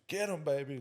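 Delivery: put-on half-holler it like a mom urging on her kid. Dad imitates his wife voicing her opinion, mock holler. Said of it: "'cause she's hollering".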